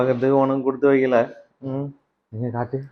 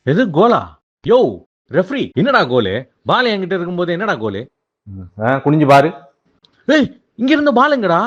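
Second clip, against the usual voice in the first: higher-pitched mock outrage; indignant protest; 5 semitones higher than usual. Player disputing a goal with the referee, indignant. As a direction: argue with the referee in disbelief.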